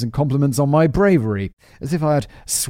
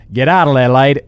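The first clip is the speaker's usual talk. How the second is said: louder, clipped Australian order; Australian accent; 2 semitones higher, 8 dB louder than usual. Shown as a demonstration. Redoing Alex's line to the ghost in an Australian accent. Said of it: "This is an Australian accent".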